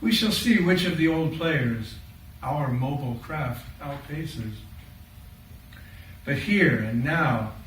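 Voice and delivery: measured dramatic monologue in verse; poem recital. Acted. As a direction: recite as Noah's eldest son, with deliberate pauses between phrases.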